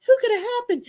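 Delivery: very high pleading wail; hammed-up distraught cry; high anguished question. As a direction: beg the universe in despair. Retold shock at fish death.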